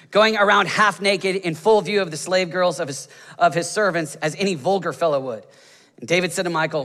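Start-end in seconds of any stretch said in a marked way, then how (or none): none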